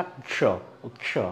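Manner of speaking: क्ष as bare k-sh, no अ in front; soft clipped-off क्ष, क straight into श; vowel removed. Shown as a demonstration. Teacher shows what remains, correct pronunciation. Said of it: "इस अ को भी हटा दीजिए".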